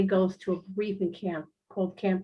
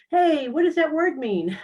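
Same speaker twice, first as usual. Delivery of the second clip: high, louder puzzled voice; mock puzzled question; 6 semitones higher, 5 dB louder than usual. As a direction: play the nosy questioner. Mock question while channeling.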